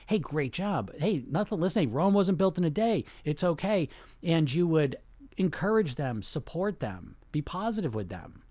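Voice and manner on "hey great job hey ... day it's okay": a touch of bright, higher encouragement rising toward Rome wasn't built in a day; lightly voiced cheering on a friend who slipped up; supportive encouragement. Cheering on a loved one after a mistake, lightly supportive. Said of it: "You'd be very supportive".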